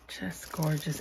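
soft whispered admiration; awed whisper. Real, not acted. Admiring the unboxed goodies, awed whisper. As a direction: breathe it out in awe.

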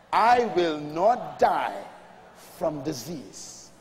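"I will not die from disease" drawn out very slowly, word by word; slow it right down so it sinks in; a slow, deliberate declaration. Shown as a demonstration. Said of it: "I'm gonna say that slow one more time".

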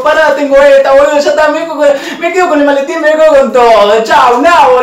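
loud, gloating brush-off; cocky shouting. Retold or imitated. Telling the boss on the phone he keeps it all, loud and gloating. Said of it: "Le digo".

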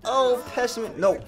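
very high, loud, frantic rat squeal; squeaky rat voice. Acted. Rat squealing at the other rats in the bathroom. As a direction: shriek like a panicked cartoon rat.

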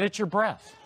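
cheeky comeback with a laugh; a touch of smart-aleck laughter; smart aleck reply. Retold or imitated. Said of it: "I said".

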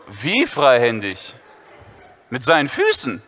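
low, dumb deadpan; slow low baffled boy; Dennis's voice. Retold or imitated.

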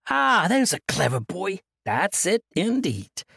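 put-on high-pitched cheerful old monk brushing it off; jovial old monk. Old monk cheerfully refusing Kasai's plea, jovial. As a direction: laugh off the burden like a merry elder.

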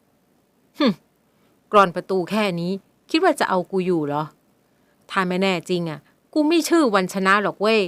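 smug lowlife bragging; sneering stepfather. Acted. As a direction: stepfather taunts the girl. Stepfather villain voice.

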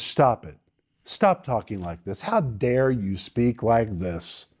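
low, weighty scolding; stern rebuke. Acted. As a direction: rebuke them slowly, pitch dropped. Voicing James rebuking the believers.

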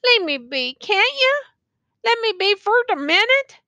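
high, urgent appeal. A narrator's reading. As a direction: beg to be left alone. There was a great appeal.

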